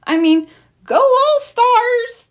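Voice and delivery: thrilled mayor cheering from the sidelines; excited cheer. Acted. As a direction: cheer the team on. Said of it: "cheered Mayor Goodway".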